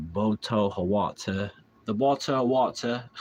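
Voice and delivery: put-on deliberate British-accented read-out; mock British pronunciation. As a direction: sound out "Boto Hawata" in mock British. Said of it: "how to pronounce British words".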